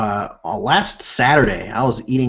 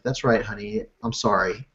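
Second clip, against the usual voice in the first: soft, lower-pitched sheepish apology; contrite apology; 4 semitones lower, 7 dB quieter than usual. Retold or imitated. Dad answering his little daughter's scolding, contrite apology. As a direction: quietly own up, voice dropped. Father apologising to chiding child, retold.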